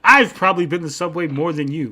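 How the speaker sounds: imitating an indignant dad; getting mad. Dad defending his Subway experience, getting mad. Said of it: "He starts getting mad".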